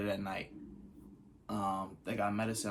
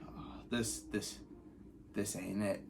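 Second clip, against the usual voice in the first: whispered, drained of voice; breathless whisper; 8 dB quieter, slower than usual. Retold or imitated. Unable to hop, whispering to himself in defeat. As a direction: barely get the words out.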